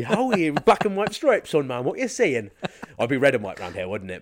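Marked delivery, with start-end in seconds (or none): 0.0-2.5 loud, high Geordie banter; put-on Geordie accent. Shown as a demonstration. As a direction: hail a mate in broad Geordie. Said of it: "I'm an accent chameleon".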